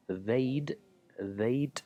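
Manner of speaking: "they'd" ending close to a T; "they'd" said almost as "they't". Shown as a demonstration. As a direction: harden the final D of "they'd" towards T. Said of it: "The D sounds like more, more like a T".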